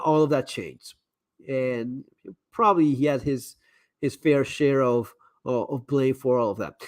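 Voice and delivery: hoarse, worn-out voice fading; losing voice. Real, not acted. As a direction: voice giving out, tired and hoarse. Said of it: "I'm losing my voice here".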